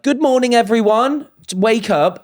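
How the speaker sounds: high, singsong morning call; imitated wake-up announcer. Voice of God waking the villa, high announcer call. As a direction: call everyone awake from on high.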